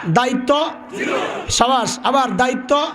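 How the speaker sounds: shouting the word back to the crowd; booming call for the crowd to answer; crowd call-and-response shout. Real, not acted. Preacher roaring at the crowd for its answer. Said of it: "জোরে বলেন।".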